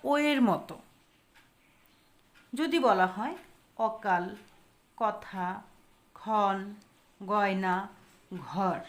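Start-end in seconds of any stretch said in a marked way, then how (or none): 3.8-8.8 গয়না and ঘর with open 'aw', word by word; open অ sound. Shown as a demonstration. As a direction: say অকাল, কথা, ক্ষণ with open 'aw' vowel. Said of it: "অ এর উচ্চারণ কিন্তু অ এর মতো হয়েছে".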